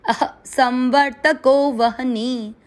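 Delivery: संवर्तको stressed, slow chant; slow recitation. Shown as a demonstration. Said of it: "एक बार चरण को वापस सुनेंगे".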